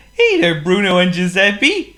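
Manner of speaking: high, loud squeaky penguin; a gloomy little penguin sighs. A narrator's reading. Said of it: "greeted Waldo".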